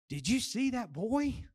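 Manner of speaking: slow, wondering excited question; mild excitement. Shown as a demonstration. Preacher shows one phrase two ways, mildly excited wonder. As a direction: ask it with understated, lingering amazement. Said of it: "in excitement".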